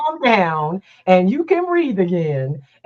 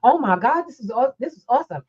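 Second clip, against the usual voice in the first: fast, tumbling mock excitement; mock gushing; 6 semitones higher, much faster than usual. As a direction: rattle it off like a thrilled oversharer. Imitating excited oversharer.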